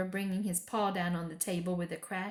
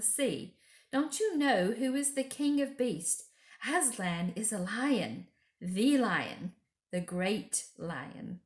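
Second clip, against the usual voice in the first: stern; 4 semitones higher, 3 dB louder than usual. Acted. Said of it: "said Mister Beaver sternly".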